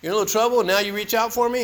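God chiding the hiker for calling only now. Retold or imitated. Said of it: "He goes".

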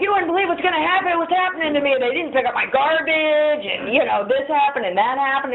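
high, rushed, overwound complaining; frantic. Retold or imitated. Caffeinated newcomer rants to her sponsor, high and frantic. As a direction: wound up on a pot of coffee.

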